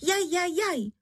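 high, wailing cries of pain; crying out in pain. A narrator's reading. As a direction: yelp high as the candle burns. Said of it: "že se dala do křiku".

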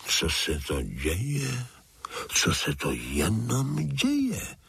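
put-on old toad puzzled, rising on děje; slow bewildered toad voice, děje drawn out; wondering aloud. A narrator's reading. Old toad wonders at the bustle, slowly bewildered. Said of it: "divila se".

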